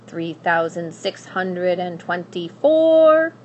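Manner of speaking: slow, dry counting, barely looking up; a hint of a bored old witch; lightly voiced witch counting. Witch counting gold, ignoring the princess, lightly voiced.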